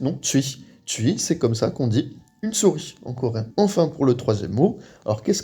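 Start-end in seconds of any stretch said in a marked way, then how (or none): 0.2-0.6 tui with both vowels run together; teacher demo of tui. Shown as a demonstration. Teacher shows learners Korean tui, vowels run together. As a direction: glide tu into i in tui. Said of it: "on prononce les deux d'affilée presque".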